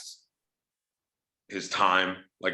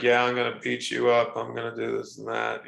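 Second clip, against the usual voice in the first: monotone; 4 semitones higher than usual. Retold or imitated. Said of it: "he basically sounded very monotone".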